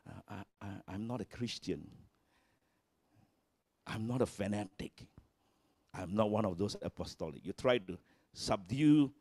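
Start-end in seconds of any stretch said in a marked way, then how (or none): 0.1-7.5 softer, hesitant mumbling denial; mock timid Christian shrinking from faith. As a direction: back away sheepishly, almost under the breath. Timid believer denying faith.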